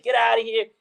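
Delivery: mock dad yelling someone off; imitating annoyed dad. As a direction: shoo away a crazed kid at the door. Friend's angry dad, retold.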